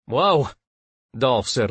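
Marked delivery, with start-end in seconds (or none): 0.1-0.5 mildly alarmed, pitched up; a short, higher exclamation of alarm. A narrator's reading. Dolph seeing the screen, mild alarm.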